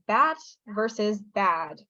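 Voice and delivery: BAT short, BAD with a longer vowel; vowel length contrast. Shown as a demonstration. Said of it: "bad is pronounced longer".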